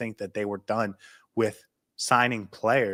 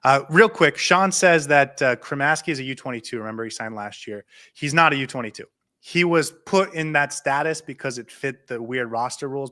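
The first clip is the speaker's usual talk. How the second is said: excited. Real, not acted. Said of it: "I'm just excited".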